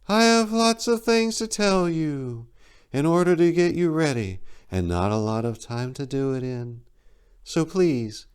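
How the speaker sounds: commanding giant eagle, impatient and urgent; high eagle voice. Acted. Eagle voice in story.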